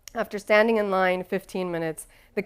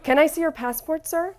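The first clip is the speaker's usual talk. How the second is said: polite flight attendant; 8 semitones higher than usual. Retold or imitated. Flight attendant voiced, much higher.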